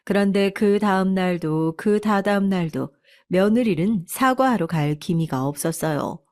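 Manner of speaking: ordinary delivery, nothing marked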